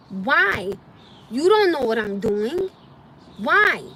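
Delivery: loud, rising indignant why; exasperated, demanding why; angry why. Real, not acted. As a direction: throw the question out hard.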